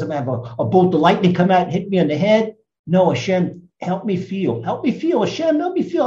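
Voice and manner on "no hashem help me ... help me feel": pleading prayer. Acted.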